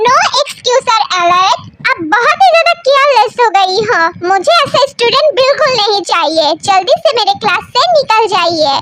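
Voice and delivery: mild stern anger; scolding professor. Acted. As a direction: throw her out of class, sternly. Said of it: "sir बहुत गुस्से में है".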